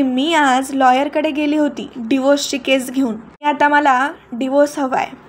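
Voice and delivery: normal talking voice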